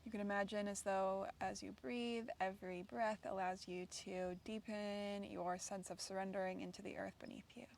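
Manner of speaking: calm, unhurried guiding with long pauses; guided meditation. Real, not acted. Yoga teacher settles students onto the ground, guided meditation. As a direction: ease listeners gently into relaxation, leaving space between phrases.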